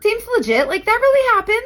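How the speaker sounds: dry sarcastic aside. Real, not acted. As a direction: say it like you don't buy it.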